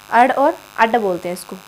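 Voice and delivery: अड sounded with a flapped retroflex ड़, then with an aspirated ढ़; ड़ and ढ़ demo. Shown as a demonstration. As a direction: flap the tongue back for अड. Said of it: "ये वो वाला अंग और ढ नहीं है". (अड और अड में ड़ और ढ़ का फ़्लैप उच्चारण)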